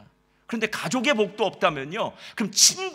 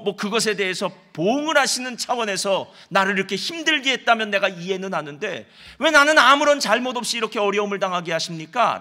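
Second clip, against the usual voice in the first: building, louder aggrieved plea; aggrieved complaint; 3 dB louder than usual. Acted. Preacher voicing Job protesting his suffering, mildly aggrieved. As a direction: protest your innocence to God, rising in force. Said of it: "억울하다는 얘기를 했어요".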